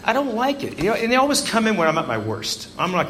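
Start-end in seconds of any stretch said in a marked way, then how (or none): 0.1-0.8 laughing while grumbling. Real, not acted. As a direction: laugh out the complaint. Laughing complaint.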